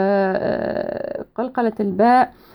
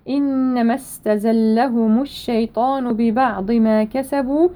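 measured tajweed recitation; Quran recitation; slower than usual. Shown as a demonstration. Teacher reciting a verse for students, measured tajweed. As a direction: recite with held long vowels and precise consonants.

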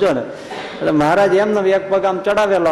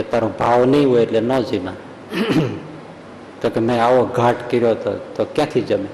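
1 laughing retort; 4 semitones lower than usual. Retold or imitated. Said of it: "વખતબાઈ મને કીધું".

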